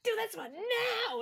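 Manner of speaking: high, drawn-out mock order; mock command. Producer ordering the actor about, mock command. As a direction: throw it out as a playful command. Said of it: "I like that I go".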